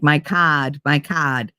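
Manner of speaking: imitated Massachusetts accent with dropped R. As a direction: lightly mimic a Massachusetts accent. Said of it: "she sounds like she's from Massachusetts".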